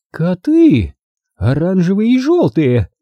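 high-pitched, startled horror; Grandma Bone alarmed. A narrator's reading. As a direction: cry out as if frightened. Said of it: "Голос бабушки Бон дрогнул".

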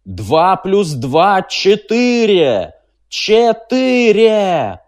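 very slow, loud, high shouting over the din; relentless shout. A narrator's reading. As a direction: shout it again and again over the roar. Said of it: "неустанно повторяющего". (Трурль кричит сквозь грохот)

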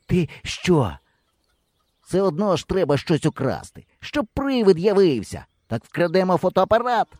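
high, lightly voiced insistence; a boy persuading his partner to steal. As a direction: push the plan. Hero persuading.

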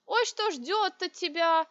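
high, squeaky, slow mock woman's voice; a man faking a squeaky old woman; squeaky falsetto. A narrator's reading. Dinar in disguise mimics the matron, squeaky falsetto. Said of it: "писклявым голосом".

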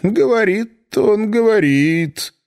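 slow, grudging concession; reluctant admission. A narrator's reading. First minister grudgingly admits Charles talks, reluctant and slow. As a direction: concede it slowly and unwillingly. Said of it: "неохотно признал первый министр".

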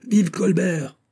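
high, ringing rallying cry; crowd cheer. A narrator's reading. Part of the crowd cheers for Colbert, crowd cheer. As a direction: call it out like a slogan from the mob.

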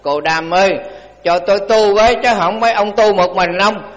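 loud, lightly voiced drunken pleading; a hint of a drunk banging on the door; drunk man. Drunk man at the Buddha's door at night, loud tipsy plea. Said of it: "anh chàng rượu say".

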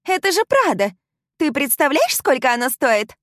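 very high, loud outraged squeal; outraged wail. Acted. Sam squeals at the heroine over her Prada dress, outraged. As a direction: wail about the ruined dress.

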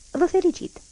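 bishop's rebuke dressed as congratulation; reproachful tone. Acted. Bishop reproachfully congratulates the old conventional, mock praise. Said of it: "spuse el pe un ton de dojană".

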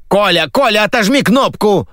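harried host yelling at the control room; frantic yell. Acted. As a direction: scream for Kolya across the studio. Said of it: "завопил Сергей".

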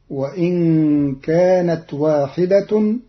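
واحدة ending in -tun, slowly; slow deliberate واحدة with the raf ending; nominative ending. Shown as a demonstration. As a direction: mark the damma on واحدة. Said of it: "بالرفع".

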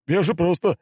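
stammering. A narrator's reading. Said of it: "пролепетал он".

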